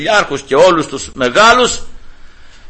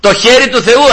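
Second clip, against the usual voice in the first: rising proclamation; 6 semitones higher than usual. Real, not acted. Preacher lifting his voice to proclaim to the congregation. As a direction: proclaim it to the whole room.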